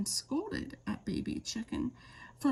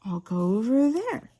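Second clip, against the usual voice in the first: eager chick; 7 dB louder than usual. A narrator's reading.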